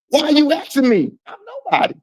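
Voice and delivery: high squeaky mimic of the friend; mocking whiny voice. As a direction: squeal it like a whiny kid being sarcastic. Mocking the other man again.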